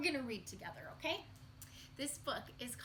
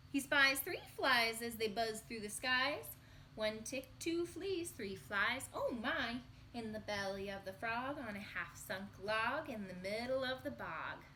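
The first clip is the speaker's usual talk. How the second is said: put-on reading to children. Teacher reading the refrain aloud to children, singsong. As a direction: count them off brightly for the kids.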